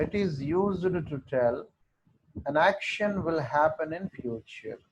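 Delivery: very slow, word by word; teacher dictating to the class, very slow; slow dictation. Shown as a demonstration. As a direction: dictate it so students can write. Teacher dictates definition slowly.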